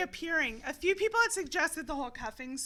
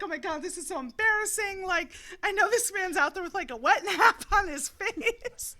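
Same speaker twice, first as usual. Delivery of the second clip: panicked, laughing; 5 semitones higher, 4 dB louder than usual. Retold or imitated. Voices own panic in restroom.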